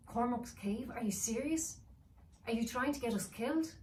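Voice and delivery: put-on a kid's worried voice; a child protesting in alarm. Child character voice.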